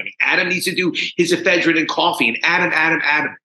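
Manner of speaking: high opening jeer, easing into a quick listing; taunting voice. Retold or imitated. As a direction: imitate a mocking voice reeling off accusations. Inner voice taunting him after laughing.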